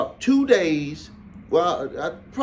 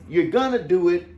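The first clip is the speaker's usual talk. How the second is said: firm, a touch louder command; firm order; 4 dB louder than usual. Retold or imitated. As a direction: push him with a mild drill-sergeant edge. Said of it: "Not as strong as the way that the drill sergeant did".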